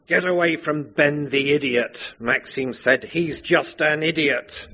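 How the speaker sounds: lightly dark and menacing; dark, queer husband. Acted. Maxime warns his wife away from Ben, mock sinister. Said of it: "his voice turning dark and queer".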